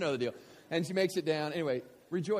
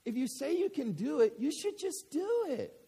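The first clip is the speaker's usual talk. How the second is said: put-on little girl; 10 semitones higher than usual. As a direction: say it plainly like an innocent four-year-old. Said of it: "This is what she says to him".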